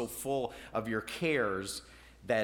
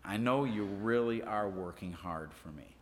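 soft, gentle reassurance spoken with care; tender; 5 semitones lower, 4 dB quieter than usual. Retold or imitated. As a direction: say it as a loving compliment, softly. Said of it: "could have been said as a compliment".

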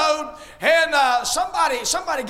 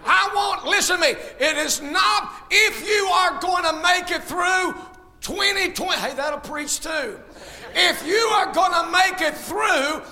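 fiery preaching. Acted. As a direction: preach it out to the whole church. Preaching to the congregation.

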